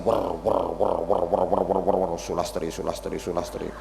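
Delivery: low mumbled chanting of names; mock wirid murmur. Old man murmuring widows' names as dhikr, mock. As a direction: mutter widows' names like prayer beads.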